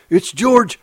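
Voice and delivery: light up with relief; cried out. Acted. Lenny cries out recognising George, gladly. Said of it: "Lenny cried".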